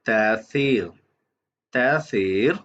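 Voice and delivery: तासीर with long vowels and a th-like स; Arabic pronunciation. Shown as a demonstration. Teacher reading out the Arabic pronunciation, तासीर said carefully. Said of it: "ये इसकी लिखी है Arabic pronunciation".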